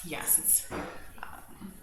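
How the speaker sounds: talking over a mug; sipping tea. Real, not acted. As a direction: murmur around a sip of tea. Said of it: "I need to take a little sip".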